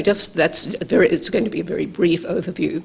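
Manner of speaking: normal talking voice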